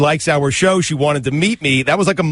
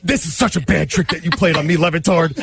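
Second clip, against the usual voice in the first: outraged indignant. Real, not acted. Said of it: "your outraged indignant".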